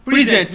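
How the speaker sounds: PRE-sent, the noun; stress on first syllable. Shown as a demonstration. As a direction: PRESENT as the gift, weight on PRE. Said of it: "the first syllable is the stressed".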